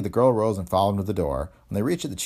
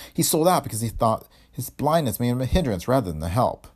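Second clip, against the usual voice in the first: slightly raised woman's voice; earnest defensive daughter; 5 semitones higher, 3 dB louder than usual. Acted. Daughter explaining her blind father was tricked, earnestly. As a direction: plead the father's case, pitch a little up.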